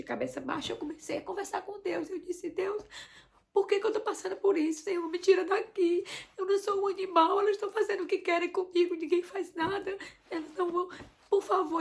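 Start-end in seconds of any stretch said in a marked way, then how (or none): 2.5-11.8 retold prayer, higher and louder, pleading; crying out to God. Mother on all fours crying out to God, pleading. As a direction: beg God to get you out of there. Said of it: "a clamar por Deus".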